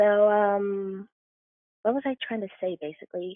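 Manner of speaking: soft, nervous, hesitant, groping for words. Talking on the phone and admitting to nerves, nervous and hesitant. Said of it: "I'm sorry, I'm nervous".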